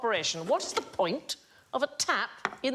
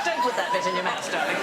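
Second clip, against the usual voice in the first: stern schoolteacher warning; school teacher voice; 3 semitones lower, 4 dB louder than usual. Shown as a demonstration. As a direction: scold like a teacher. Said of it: "I sound like a school teacher".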